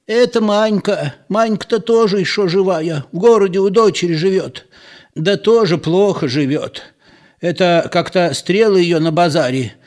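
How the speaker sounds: put-on high-pitched old woman's chatter; high, lively old gossip; gossiping old villager. A narrator's reading. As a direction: pass on village news in a high voice.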